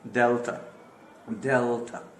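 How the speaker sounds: डेल्टा with a short final vowel; don't drag the last "a" of डेल्टा; unstretched ending. Shown as a demonstration. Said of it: "खींचेगा नहीं".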